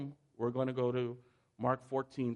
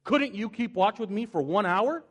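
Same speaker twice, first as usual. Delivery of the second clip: much higher and louder, an exasperated scolding; harsh rebuke; 8 semitones higher, 7 dB louder than usual. Shown as a demonstration. Jesus scolding sleeping disciples, loud angry rebuke. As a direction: bark it like an annoyed accuser. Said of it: "we interpret it as this".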